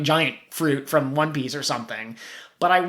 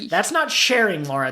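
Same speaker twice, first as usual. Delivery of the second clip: laughing mock scold; 4 semitones higher than usual. Voicing reply to Laura, laughing.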